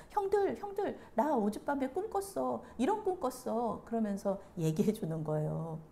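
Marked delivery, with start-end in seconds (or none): 0.1-3.8 lightly acted, high-pitched opening call; innocently eager to share with older brothers; naive younger brother. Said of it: "순진하게 자기 꿈을 그냥 그대로 얘기해요".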